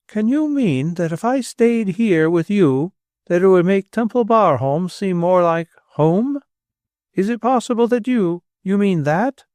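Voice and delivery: breathless hope she can't quite believe; amazed disbelief. A narrator's reading. Old lady asking the heir if he means it, amazed. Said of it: "She trembled with amazed emotion".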